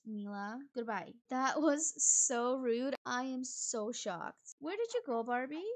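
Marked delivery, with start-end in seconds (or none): 1.3-4.5 louder, slow stressed outrage; indignant. Real, not acted. Player after sending Mila home, loud indignation. 4.6-5.6 higher, louder searching call; flustered call. Real, not acted. Player anxiously searching for Barbie in the house, flustered. Looking for Sim in panic.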